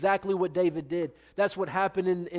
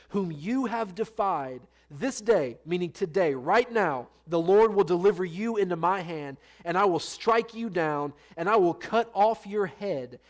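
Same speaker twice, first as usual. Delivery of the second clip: measured Bible reading to the congregation; a touch of solemn reading; scripture reading. Acted. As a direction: read it out steady and weighty.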